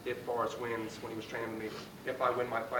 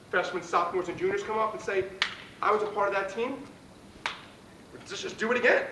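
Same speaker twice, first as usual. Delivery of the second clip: pep talk; 4 semitones higher, 3 dB louder than usual. Real, not acted. Pre-game pep talk to team.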